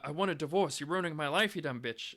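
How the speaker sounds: hammed-up furious breakup line; mock angry outburst. Man at breakfast about to dump his wife, mock angry outburst. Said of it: "I was about to say".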